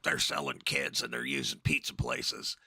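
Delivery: lightly put-on conspiracy host voice; Alex Jones impression. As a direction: imitate a ranting radio host, only lightly. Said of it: "that's a good accent, by the way".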